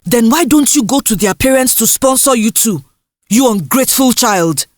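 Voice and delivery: mild mock scolding, fast at the end; a hint of an exasperated mother. Mother scolds ungrateful child.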